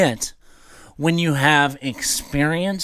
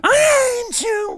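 drawn-out, high-pitched imitation scream; mock scream; slower than usual. Quoting Vader's screaming scene to the cohost, mock scream. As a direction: imitate an anguished film scream, stretched and high. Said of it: "The one screaming".

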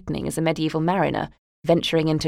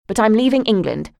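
loud, higher defiant declaration; defiant shout; 5 semitones higher, 5 dB louder than usual. Acted. Daughter yelling at mother that she is leaving England, loud and defiant. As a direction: hurl it at her as a final blow. Climax of the row.

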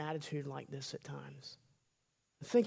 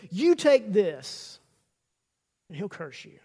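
accusing Satan; 4 dB louder than usual. Acted. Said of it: "it's accusative".

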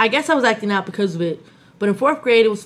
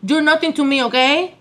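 sassy New York Latina; 3 semitones higher than usual. Acted. New York Latina telling off a man in her house, sassy. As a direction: tell him off with Bronx sass. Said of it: "like a New York Latina".

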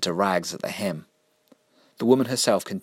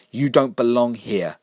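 firm warning; 4 semitones higher, 5 dB louder, slower than usual. Acted. Jessica confronts the killer.

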